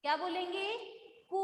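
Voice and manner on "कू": कू held out on the oo; long vowel. Shown as a demonstration. Teacher asking pupils what to say, long-held कू. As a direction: stretch कू slowly for pupils to copy. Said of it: "बड़ा हुआ है".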